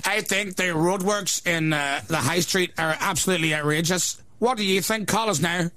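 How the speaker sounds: shock jock parody. Pretend. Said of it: "I don't know if he sounds like, uh, Frank Carson".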